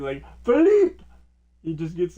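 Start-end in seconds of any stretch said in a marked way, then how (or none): 0.4-1.0 high, loud mock chef shout; imitating a furious kitchen yell; loud angry yell. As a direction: bellow the name like an angry chef. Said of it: "really loud and really angry".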